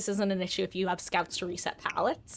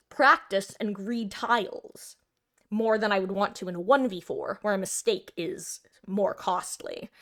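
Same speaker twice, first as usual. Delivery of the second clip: talking through a mouthful of food; slow, chewing between words; mouth full. Real, not acted. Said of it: "I have a full mouth of food".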